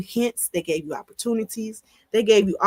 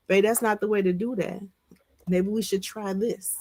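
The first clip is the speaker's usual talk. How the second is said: soft suggestion; 4 dB quieter than usual. Shown as a demonstration. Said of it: "I don't know what you should say".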